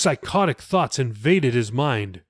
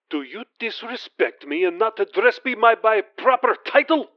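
a lightly voiced cold threat, higher; a prince threatening his servant, coldly angry; menacing prince; 8 semitones higher than usual. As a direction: let the threat land without shouting. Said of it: "The voice was no longer whispering".

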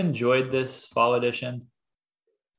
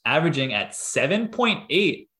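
robot voice; 5 semitones higher than usual. Pretend. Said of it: "the E T F five bot".

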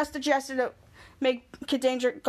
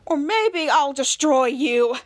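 slow hero threat; much slower than usual. Acted. Superhero counters villain off screen.

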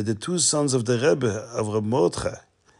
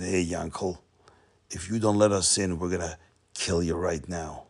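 menacing general; 4 semitones lower than usual. Acted. Generals threaten Yankel with swords.

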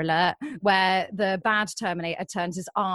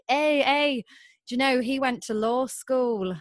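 higher, hint of jokey lads in a queue; 4 semitones higher than usual. Guys in the coffee queue teasing their mate, jokey and higher. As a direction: lightly imitate blokes calling out higher.

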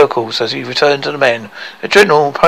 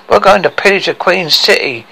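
higher, gleeful announcement; crackling with joy; 4 semitones higher than usual. Acted. Dwarf rallying his gang to pillage, gleeful. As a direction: relish the plan with mild glee. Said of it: "he crackled in joy".

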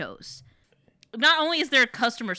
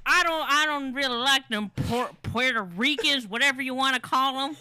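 raised mock-Southern voice; Southern bigot parody; 5 semitones higher than usual. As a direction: play an ignorant Southerner with a twang. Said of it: "turns into a problematic white man".

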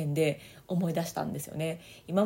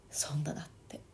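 soft whispered afterthought; 6 semitones lower, 11 dB quieter than usual. Real, not acted. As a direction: let it fall to a whisper. Quiet conclusion after pause. (ささやき声で)

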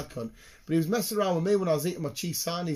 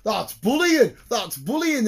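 higher, louder whining protest; whiny lad; 9 semitones higher, 8 dB louder, slower than usual. Retold or imitated. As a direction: complain like a wounded kid. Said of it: "He was like".

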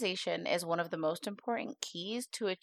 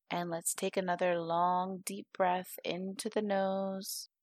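guided meditation. Acted. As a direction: guide the listener unhurriedly into calm.

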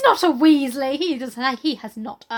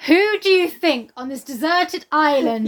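incredulous; 4 semitones higher, 5 dB louder than usual. Retold or imitated. Mocking the obvious question.

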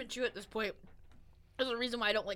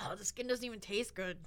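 whispering; 6 dB quieter than usual. Real, not acted. Whispers disgust at peel.

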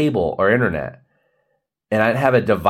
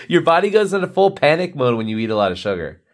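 laughing whisper; 4 semitones higher, faster than usual. Real, not acted.

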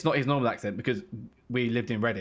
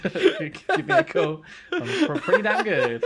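put-on South African accent; 10 semitones higher, 6 dB louder, slower than usual. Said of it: "If you want an impressionist".

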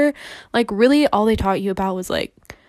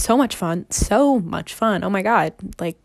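sarcastic. Acted. Teen tells listeners about the movie theater job, sarcastic. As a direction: gush with obvious insincerity. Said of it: "that was sarcasm".

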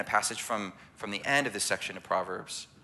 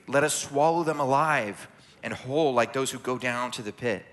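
measured, emphatic Bible reading; proclaimed verse with deliberate phrasing; scripture reading; 3 semitones higher than usual. A narrator's reading. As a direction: read the proverb aloud to the congregation. Reads scripture aloud.

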